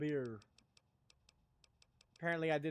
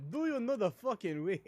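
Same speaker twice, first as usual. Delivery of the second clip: mock African accent turning insistent; a mildly vicious meme impression in African accent; Ugandan Knuckles impression; 3 semitones higher than usual. Streamer escalating a meme quote, insistent mock African accent. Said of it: "when they get more and more vicious".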